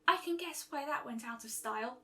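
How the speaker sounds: a quiet aside under the breath; whispered. A narrator's reading. Fluttershy murmuring to the group, hushed. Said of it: "Fluttershy whispered".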